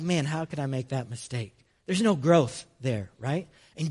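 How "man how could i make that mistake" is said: mild self-pity. Retold or imitated.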